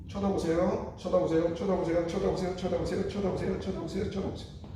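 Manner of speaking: verbal cue to look. Shown as a demonstration. Therapist telling the patient to watch the movement, coaching. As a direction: call out to guide the patient's eyes. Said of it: "운동의 방향을 쳐다보면서".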